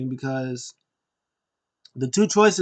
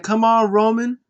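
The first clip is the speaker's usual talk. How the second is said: high, louder shouted dare; loud taunt; 8 semitones higher, 7 dB louder than usual. Retold or imitated. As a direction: yell it across the arena. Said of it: "He was like".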